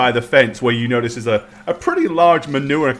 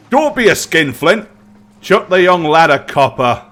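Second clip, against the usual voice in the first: raised voice, slightly higher; stablehand calling over; 4 semitones higher, 6 dB louder than usual. Acted. Stablehand urging a guest to tip, lightly voiced call. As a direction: call it out like a man across the yard. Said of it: "you hear a voice say".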